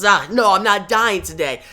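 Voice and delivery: desperate defiance. Acted. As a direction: refuse to give in, voice up. Wally fights the closing force field.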